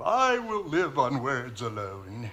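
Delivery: very low, soft, affected put-on posh accent. A character talking about oats in a pasture, switching into a posh accent. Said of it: "[affects posh accent]".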